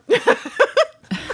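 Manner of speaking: high, loud burst of laughter; real laugh. Real, not acted. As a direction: laugh out loud at your own joke. Laughs after own gamer joke.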